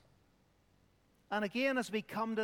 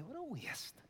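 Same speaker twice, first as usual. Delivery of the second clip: higher, softer scornful jeer; mock her with a raised, sneering tone; scornful critic; 6 semitones higher, 10 dB quieter than usual. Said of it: "You can hear them".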